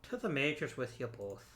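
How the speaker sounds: lightly put-on Irish accent; a playful hint of Irish lilt. Manager sends two players up to the majors, in a light Irish accent. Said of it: "said that in an Irish accent".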